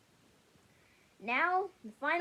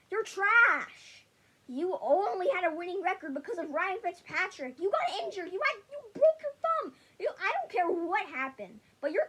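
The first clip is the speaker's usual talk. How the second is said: yelling at Tua; 4 dB louder than usual. Real, not acted. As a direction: shout him down like an angry fan. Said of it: "just yelling at Tua".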